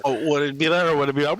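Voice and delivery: usual speaking voice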